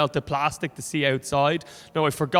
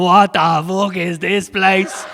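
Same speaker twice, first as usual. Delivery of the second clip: bewildered Bray commuter; 4 semitones higher, 7 dB louder, slower than usual. Retold or imitated.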